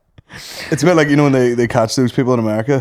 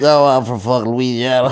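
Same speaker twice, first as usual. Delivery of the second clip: mock squeaky helium voice, laughing through it; 2 semitones higher than usual. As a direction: imitate a voice gone strange from paint fumes. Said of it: "makes his voice a wee bit weird".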